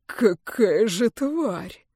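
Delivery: slow, venomous hiss; an enraged friend hisses at the enemy; hissed curse. Acted. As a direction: spit the curse through clenched rage. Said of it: "шипит Арканис".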